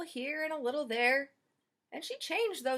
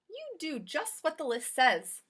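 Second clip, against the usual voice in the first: Mrs Rogers; 4 semitones higher, slower than usual. Acted. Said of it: "said Missus Rogers".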